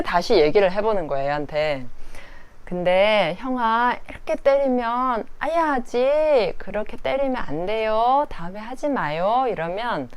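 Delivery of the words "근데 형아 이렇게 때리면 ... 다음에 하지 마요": gentle teaching. Retold or imitated. Mother gently teaching her toddler.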